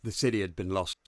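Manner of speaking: low, measured story narration; narrator voice. Shown as a demonstration. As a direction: read it like a storyteller. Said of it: "Need to prep the narrator voice".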